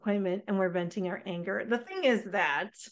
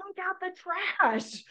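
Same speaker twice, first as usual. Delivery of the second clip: higher, slow nagging mom voice; 8 semitones higher than usual. Retold or imitated. Mom nagging daughter to take out trash, lightly voiced. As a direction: drag it out like a tired mom. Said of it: "you see the mom on one side".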